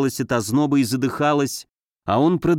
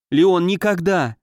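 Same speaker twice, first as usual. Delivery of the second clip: slow, raised fervent vow; горячая клятва; 4 semitones higher than usual. Acted. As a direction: swear it with passion, drawing out the words. Heroine swears fervent refusal. (медленная страстная клятва)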